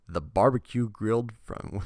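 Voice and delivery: reading on until a laugh breaks out; fighting a laugh while reading; breaking into laughter. Real, not acted. Host reading card text cracks up, breaking into laughter. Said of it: "I'm laughing".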